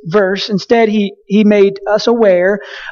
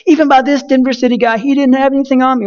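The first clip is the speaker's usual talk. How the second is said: mock cocky student; 4 semitones higher, faster than usual. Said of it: "he's still".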